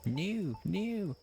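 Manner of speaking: squeaky rising "new"; high excited squeal. Real, not acted.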